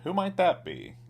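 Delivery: high barman voice, alarmed. A narrator's reading. Barman asks cowboy, high and alarmed.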